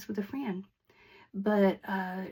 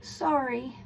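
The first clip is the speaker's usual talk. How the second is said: "Sorry" tossed off while turned away, higher and uncaring; cold-shoulder sorry; 4 semitones higher than usual. Shown as a demonstration. Teacher showing students the wrong way to apologize, cold and dismissive. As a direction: say it over your shoulder without meaning it. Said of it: "you don't wanna just say it".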